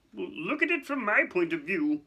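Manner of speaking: high, pleading bureaucrat; harried official. Acted. Fudge asking Dumbledore to understand, harried. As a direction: appeal for understanding, uneasy. Fudge fidgets, defending himself.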